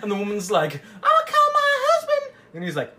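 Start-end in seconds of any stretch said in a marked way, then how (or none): 1.0-2.3 very high, loud falsetto; hammed-up shriek of a threatened woman; mock alarmed woman. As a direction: cry it out in a comic high voice.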